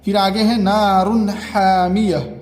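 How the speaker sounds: slow Quranic reading, clear नून before हा; slow clear reading of नारुन हामियह; izhar recitation. Shown as a demonstration. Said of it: "इजहार होगा".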